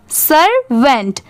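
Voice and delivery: "सर्वेंट" slowly, broken as सर and वेंट; split into syllables. Shown as a demonstration. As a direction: separate the two syllables of "सर्वेंट". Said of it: "इसको easily कैसे पढ़ेंगे?".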